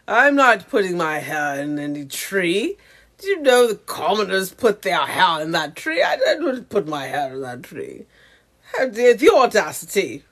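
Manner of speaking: mock-indignant put-on snooty voice; haughty colonizer character. Colonizer avatar storming off home, mock indignant. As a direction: play an affronted lady refusing to mix with commoners. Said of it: "She would probably talk like this".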